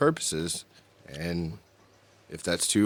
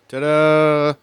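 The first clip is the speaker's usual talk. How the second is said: loud, showy ta-da; excited ta-da; 6 semitones higher, 9 dB louder than usual. Acted. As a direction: present it like a magic trick. Announcing the dabs.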